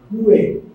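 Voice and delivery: Que com o u pronunciado, kue; que italiano. Shown as a demonstration. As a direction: dizer Que soando todas as vogais. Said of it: "pronuncia-se todas as vogais do que". (Que à italiana, kue)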